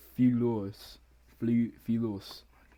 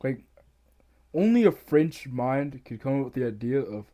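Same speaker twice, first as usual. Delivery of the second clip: ordinary talk, nothing marked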